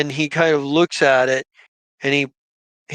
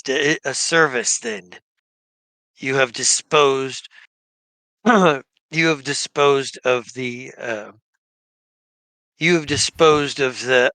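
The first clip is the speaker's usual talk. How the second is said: lightly voiced gnoll shaman. Gnoll shaman thanks the party for killing undead, lightly voiced and solemn.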